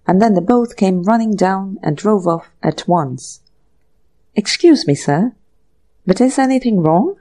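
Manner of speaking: bow and explain like a polite butler; deferential butler. Acted. Butler Rogers recounts departure.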